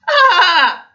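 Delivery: high, loud copied laugh; Man copying God's laugh; roaring laugh. Retold or imitated. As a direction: roar it like God did. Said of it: "roared Man, imitating God".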